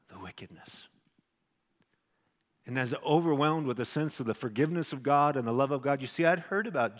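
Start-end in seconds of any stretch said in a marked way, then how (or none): 0.1-0.9 whispered, barely audible repeat; hushed whisper. Real, not acted. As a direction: breathe the word out in awe. Repeating his confession, hushed.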